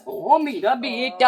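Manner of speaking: slow, drawn-out coo; mock soothing. Soothing the crying toy monkey, slow playful coo. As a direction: stretch the words to pacify a toy. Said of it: "अब इसको चुप कराना पड़ेगा".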